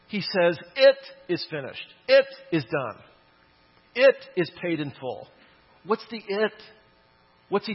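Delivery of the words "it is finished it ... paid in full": proclaimed loudly. Retold or imitated. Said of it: "Jesus yelled".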